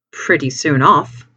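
slow, faintly aggrieved remark; slightly injured. Acted. Sailor remarking on the quick departure, slightly injured. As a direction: say it slowly, a touch hurt. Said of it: "just a little sense of injury".

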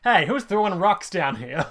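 high, loud, slow guard shout; Stormtrooper voice. Retold or imitated. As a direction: bark at the rock-throwers. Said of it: "the Stormtrooper's like".

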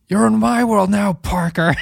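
a sneering unhinged Sid; Sid impression. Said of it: "I love Russell Crowe as Sid".

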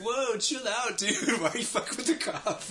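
mock girl's alarm. Girl voiced, laughing through it.

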